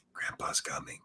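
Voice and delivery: soft, voiceless hush; whispered. Acted. Listener suggesting how to warn baby Grandpa's coming, whispered. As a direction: whisper it as a gentle warning to a baby. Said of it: "you should have just whispered".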